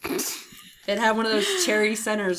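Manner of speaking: speaking past cough drop bits; mouth full. Real, not acted. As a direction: mouth full while talking. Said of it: "my mouth is full of crap".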